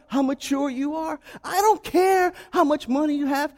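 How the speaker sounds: rising, insistent preacher's refrain; fervent sermon cadence; preaching. Acted. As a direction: hammer home I don't care like a pulpit climax. Preaching builds.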